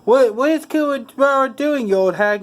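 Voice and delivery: high-pitched indignant surprise; acted shock, voice leaping high; shocked outburst. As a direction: blurt it out, pitch jumping up. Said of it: "Yusuke is shocked and Yusuke is surprised".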